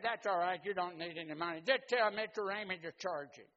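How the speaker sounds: high, loud, bossy big brother; big brother instructing. Retold or imitated. Older brother instructing his little brother at recess, high and loud. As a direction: tell him exactly what to do.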